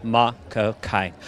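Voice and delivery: low, slow Cockney impression; Michael Caine. Actor echoing interviewer, slow low Michael Caine impression. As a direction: drag it out low, London-style. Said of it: "I've lapsed into Michael Caine".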